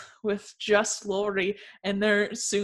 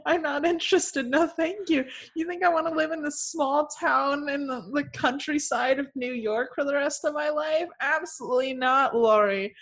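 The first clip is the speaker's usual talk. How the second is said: haughty refusal rant. Retold or imitated. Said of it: "Lori's like".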